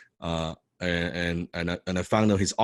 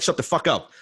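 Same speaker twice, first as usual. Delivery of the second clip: loud, raised retold telling-off; irritated retort; 8 semitones higher, 4 dB louder than usual. Speaker to noisy man at the back, irritated shout. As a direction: re-enact an annoyed speaker silencing a heckler.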